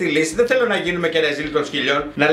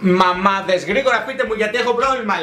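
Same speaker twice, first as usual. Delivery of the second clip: mock panicked mom; slower than usual. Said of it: "λέει".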